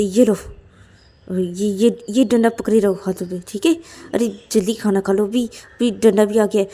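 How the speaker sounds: lightly acted, pressing urging; insistent Ananya. Ananya hands Payal the stick, insistent. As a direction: press her to hurry, a touch forceful.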